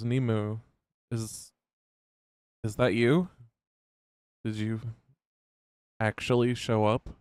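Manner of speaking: gentle, hesitant, unsure rumble. Narrating a scene, voicing Tuvali calling out to Nemu in a soft rumbling voice. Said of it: "his uh almost soft rumble of a voice".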